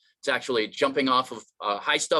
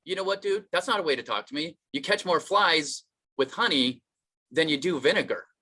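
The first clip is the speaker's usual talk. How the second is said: higher-pitched mild scolding; mock reproving; 5 semitones higher than usual. Friend scolding the guy who insulted him, mildly reproving. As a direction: lecture him with a pat saying.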